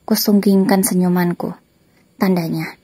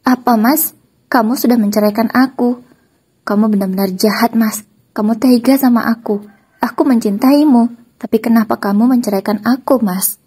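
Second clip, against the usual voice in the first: tearful; 4 semitones higher, 4 dB louder than usual. Acted. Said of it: "Kini dia berbicara sambil menangis".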